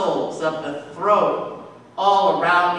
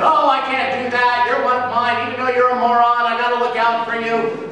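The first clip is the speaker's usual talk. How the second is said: raised, loud captain's refusal; captain refusing; 4 semitones higher, 4 dB louder, faster than usual. Acted. Captain refusing to throw Jonah over, loud. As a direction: shout it protectively over the wind.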